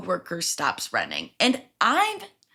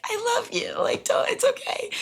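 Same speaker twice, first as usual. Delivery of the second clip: retold comforting. Manager comforts her with hug.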